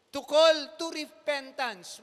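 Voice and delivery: high, loud and slow proclaiming; preacher's loud call to repent; loud proclamation. Acted. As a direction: announce it from the pulpit.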